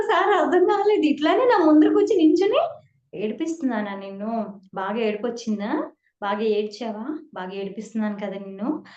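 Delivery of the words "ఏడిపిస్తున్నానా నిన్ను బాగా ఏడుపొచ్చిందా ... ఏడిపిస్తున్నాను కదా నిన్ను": put-on low, hushed teasing of a crying girl; a lower, gently mocking older man's voice; teasing guru. Guru teases the crying devotee, low and hushed. Sir teasing her again.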